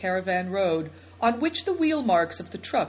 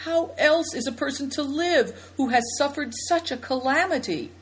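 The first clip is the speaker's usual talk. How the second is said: deep emotion; 7 semitones higher than usual. A narrator's reading. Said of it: "speaking with deep emotion".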